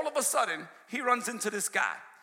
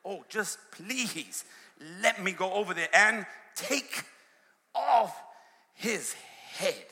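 pleading Abishai; slower than usual. Retold or imitated. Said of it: "Oh, he's saying".

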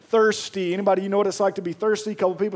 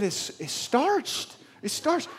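mock pitiful; 5 semitones higher, 5 dB quieter, much slower than usual. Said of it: "I said, I said".

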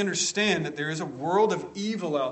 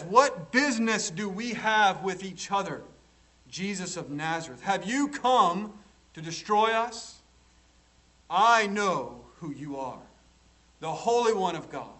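mild mock yell, raised pitch at first; retold yell; 4 semitones higher, 3 dB louder than usual. Preacher quotes the demon confronting Jesus of Nazareth, retold yell. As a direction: act out a demon's cry without fully yelling. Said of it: "he yells at the top of his lungs".

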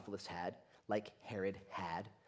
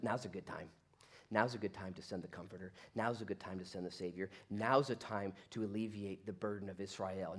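lower, understated voice after chaos; calm God; 3 semitones lower than usual. Acted. God's calm answer after the chaos.

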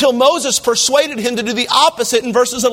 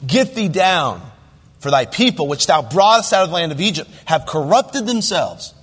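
lower, measured reading of King James verses; scripture reading; 4 semitones lower than usual. Acted. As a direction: read the verses like holy writ. Reads scripture aloud in sermon.

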